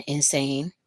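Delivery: whisper. Real, not acted. Whispered aside.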